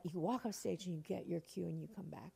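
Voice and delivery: soft unvoiced whisper; whispered instruction. Playwright quietly coaching the nervous actress, whispering. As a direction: whisper the tip like a secret backstage. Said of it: "She's like".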